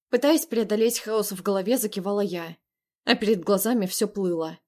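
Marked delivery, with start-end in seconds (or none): none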